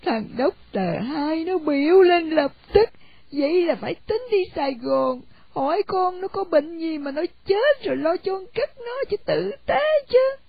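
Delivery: a mother begging to go bury her son; grieving mother. Acted. Mother pleads about dead son. (giọng bà mẹ than van)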